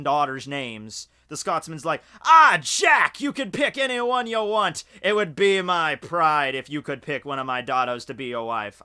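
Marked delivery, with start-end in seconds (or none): 2.2-8.8 a clumsy stab at a Scottish brogue; bad Scottish accent. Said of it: "I don't have a good Scottish accent".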